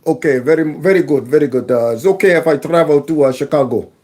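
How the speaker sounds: halting mock foreign-accented English; imitated foreign accent. Host imitating a migrant asking to travel, mock foreign accent. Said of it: "from some completely other continent".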